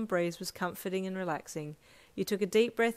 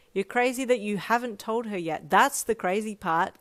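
playful retort; 3 semitones higher, 7 dB louder than usual. A narrator's reading. Kaminari teasing his friend over the phone, playful. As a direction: rib your friend playfully. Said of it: "Kaminari retorted playfully".

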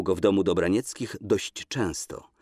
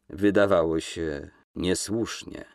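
unconvinced reply; 2 semitones lower, slower than usual. Acted. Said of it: "odpowiedział bez przekonania".

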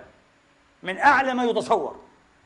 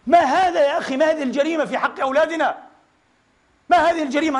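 1 indignant outcry; 5 semitones higher than usual. Real, not acted. Preacher outraged at abuse.

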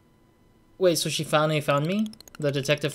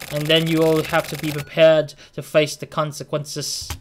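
menacing delivery man. Acted. Reads menacing delivery man lines.

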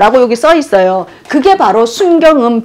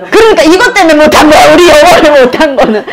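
mock lament; 3 semitones higher, 4 dB louder, faster than usual. Real, not acted. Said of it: "joking lament about English".

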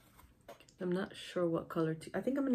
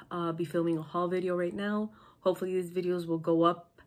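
nasal voice; 4 dB louder than usual. Real, not acted. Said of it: "sorry about my nasal voice".

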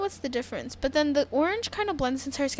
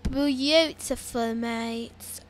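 put-on slow, playful British accent; much slower than usual. Player admiring the blue eyes, playful British accent. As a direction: slip into a mock British voice. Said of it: "when did I turn British?".

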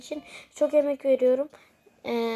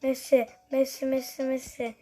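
chanting names, rising to a goal shout; sports commentator. Pretend. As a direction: hype the goal like a live match caller. Play-by-play of own game.

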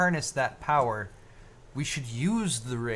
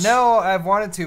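louder, slower emphatic answer; slow it down and push it out; 6 semitones higher, 12 dB louder than usual. Shown as a demonstration. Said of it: "I'm gonna answer first on this one".

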